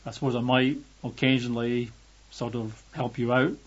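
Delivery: mock half-hearted, noncommittal promise. Preacher parodies God making a vague promise, half-hearted. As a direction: hedge it loosely, with little push. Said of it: "a sort of half-hearted God saying".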